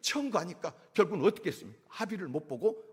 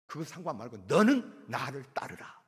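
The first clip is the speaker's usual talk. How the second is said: scolding. Retold or imitated. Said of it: "예수님께서 야단을 친 거예요".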